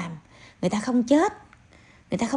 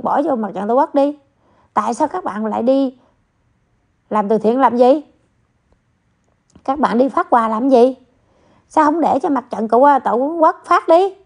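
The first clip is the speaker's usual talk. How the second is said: louder, heated sarcastic questions; louder scolding rant at the critics; 3 semitones higher, 5 dB louder than usual. Real, not acted. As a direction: hammer the critics with mocking questions.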